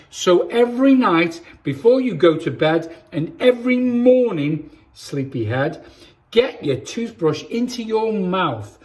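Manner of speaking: put-on lively storybook reading for kids; reading to children. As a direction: read it like bedtime story time for little ones. Reads picture book to children.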